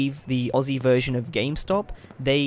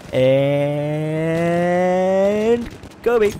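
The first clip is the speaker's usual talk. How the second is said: excited shout; 4 semitones higher, 5 dB louder than usual. Real, not acted. Cheering his own game kill.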